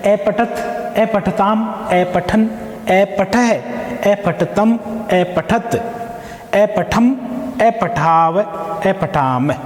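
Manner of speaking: rising, careful recitation of each form; recited paradigm. Shown as a demonstration. Teacher repeating the forms for students to memorise. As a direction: chant the verb forms clearly. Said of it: "एक बार पुनः".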